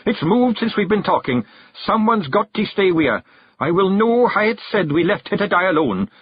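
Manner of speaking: mock gruff command; growled threat. Rob drives the clan off, in a mock growl. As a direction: drive them off.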